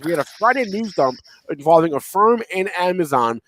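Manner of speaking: stuffy nose from a cold; blocked-nose nasal voice. Real, not acted. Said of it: "I apologize for my nasally voice".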